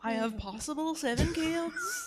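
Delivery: put-on Irish accent. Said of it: "do an Irish accent".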